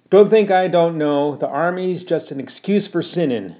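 put-on fed-up mother berating her boy; cross scolding mother. Ma scolds son.

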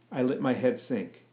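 ordinary delivery, nothing marked

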